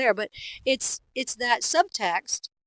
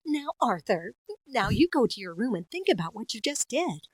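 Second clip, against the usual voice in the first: Arthur's mom. Acted. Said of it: "I played, uh, like, Arthur's mom".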